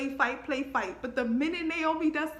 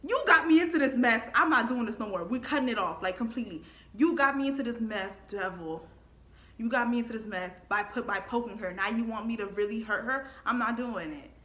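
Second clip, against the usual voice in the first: telling off the devil. Retold or imitated. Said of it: "that's when I was like".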